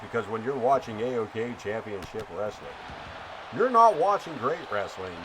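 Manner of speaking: hammed-up wrestling play-by-play announcer; radio voice. Streamer calls the match for viewer Ken in radio voice. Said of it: "We're gonna keep going with that radio voice for you".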